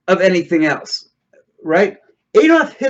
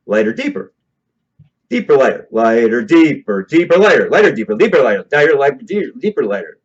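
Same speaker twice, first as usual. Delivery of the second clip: quick sporadic lighter deeper chant; rapid hypnotist alternation; 3 semitones lower than usual. Shown as a demonstration. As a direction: rattle them off fast to confuse. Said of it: "then what happens is I'll do this".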